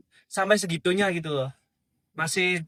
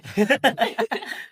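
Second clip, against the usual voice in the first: amused laugh; 6 semitones higher than usual. Real, not acted. Laughs at own joke.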